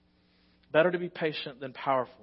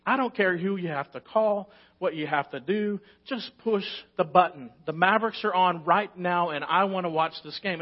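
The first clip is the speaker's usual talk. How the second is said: louder, pushy demand to the phone agent; 3 semitones higher, 5 dB louder than usual. Retold or imitated. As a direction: insist hard, leave no room. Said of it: "I'm spewing off one-liners".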